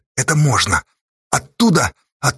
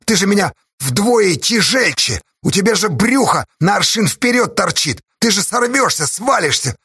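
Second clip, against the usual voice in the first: heated yelling; 6 semitones higher than usual. Acted. Arguing on cliff face.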